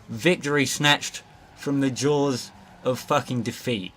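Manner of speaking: slow, grandiose announcer delivery; mock-epic proclamation. Gamer proclaiming his win to the viewers. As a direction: declare the win like an epic narrator. Triumphant proclamation after winning.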